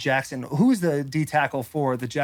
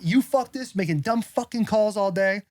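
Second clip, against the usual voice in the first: mild mock rant, pitched up; retold yelling at refs; 5 semitones higher than usual. Player griping at refs over bad calls, mild retold yell. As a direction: replay a complaint to the refs without really yelling. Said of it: "That's me yelling at the refs".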